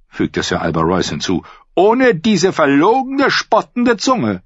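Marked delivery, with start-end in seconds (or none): 1.7-4.4 high, slow, sneering drawl; mocking knight. Knight mocks the singer before the lords, high and slow. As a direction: draw it out in scorn.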